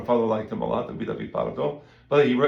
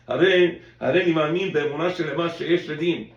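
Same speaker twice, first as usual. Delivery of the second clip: mock solemn creed; 3 semitones higher, 5 dB louder than usual. Mock declaration of belief.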